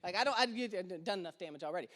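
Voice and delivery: put-on wife demanding the baby, in a low voice; stern wife. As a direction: take the baby back, gravely. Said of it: "Nicole's like".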